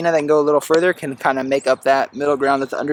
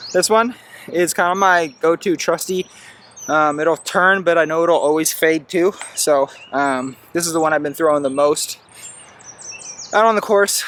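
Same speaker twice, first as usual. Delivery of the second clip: out of breath after running uphill; panting a little between phrases. Real, not acted. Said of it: "Sorry, I'm catching my breath after running up that hill".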